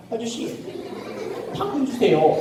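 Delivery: high, soft rabbit voice; little rabbit. Acted. Rabbit back asking the grocer for carrots, small voice. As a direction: ask in a small high voice, pausing. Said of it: "토끼가".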